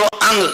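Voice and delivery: अंग with a stroke on the nasal NG. Shown as a demonstration. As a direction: draw out अंग and land on its NG. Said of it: "तो यहाँ stroke लगेगा". (अंग, ङ्ग पर ज़ोर देकर)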